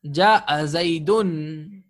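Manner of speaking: "Ja'a Zaydun" said very slowly, each syllable drawn out; slow model reading of "Ja'a Zaydun"; model Arabic phrase. Shown as a demonstration. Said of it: "Ja'a Zaydun means he came to Zayd".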